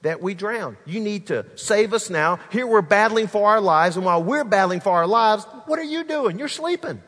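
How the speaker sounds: frantic disciples waking their teacher; panicked. Acted. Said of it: "they're panicking".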